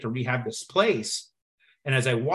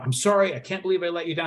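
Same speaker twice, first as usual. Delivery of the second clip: higher-pitched mock of a tearful apology; imitated tearful apology; 5 semitones higher, faster than usual. Sister apologizes to brother after failing exam, imitated tearful. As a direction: retell a crying apology, pitched up. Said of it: "So as she's crying".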